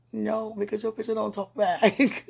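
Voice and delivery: laughing. Real, not acted. Joking about the photo.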